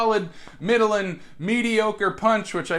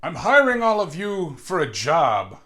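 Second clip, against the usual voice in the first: slightly raised commanding voice; booming voice; 4 dB louder than usual. Acted. Newcomer recruits the brawlers, mildly booming voice. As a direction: announce it with some weight. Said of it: "with a booming voice".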